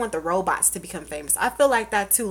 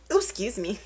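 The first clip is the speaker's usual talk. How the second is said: burp slipping out mid-word; a burp breaks through; 4 dB quieter than usual. Real, not acted.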